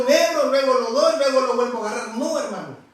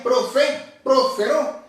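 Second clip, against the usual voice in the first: profe-, prosperó, leaning on the accented E; profe-, prosperó, sounded out to show the E; stress on the E; much slower than usual. Shown as a demonstration. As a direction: demonstrate prosperó with weight on the E. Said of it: "con acento en la E".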